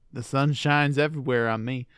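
a light hint of a Southern senator's accent; Lindsey Graham accent. Joking back at a co-host in a light Southern senator accent. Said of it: "why you did it in that accent".

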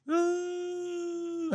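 high, soft mock crying wail like a sulking child; a child's put-on cry during a tantrum, mock wailing; imitated child's tantrum wail. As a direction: whine out a fake toddler sob. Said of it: "Já viu criança, quando tá fazendo birra?".

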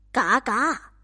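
a worn-out duck's quack; 疲惫的鸭叫; tired duck quack. Acted. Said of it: "鸭子回答".

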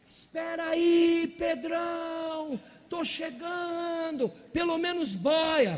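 high, slow, drawn-out comic call; joking Jesus voice. Retold or imitated. Jesus calling to sinking Pedrão, high slow comic call. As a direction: stretch each phrase like a lazy joke.

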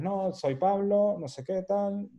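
a touch of breezy confidence; relaxed and confident. Retold or imitated. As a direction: say it unhurried, fully at ease. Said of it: "llegar de una vez y decirles".

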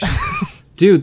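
bursting into a high laugh on dude. Real, not acted. Laughing as the vaccine question hits home.

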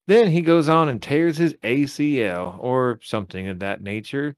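put-on Texas twang; Texas accent. Podcaster selling the breakout to his co-host, put-on Texas accent. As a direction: keep up a folksy mock-Texan bit. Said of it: "Does it sound like a Texas accent".

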